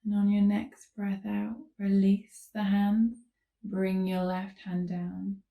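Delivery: unhurried calm cueing with long pauses; guided yoga instruction. Real, not acted. Yoga teacher leading listeners into gentle stretches, calm guiding voice. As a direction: guide them gently through each movement.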